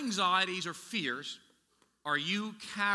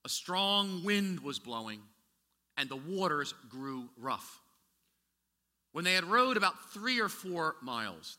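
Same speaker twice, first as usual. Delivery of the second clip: slow, measured Bible reading; scripture reading. Acted. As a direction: read the passage with weight.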